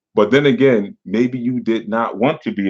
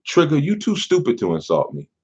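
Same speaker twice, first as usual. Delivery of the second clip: mock insult; 6 semitones higher than usual. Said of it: "by not saying".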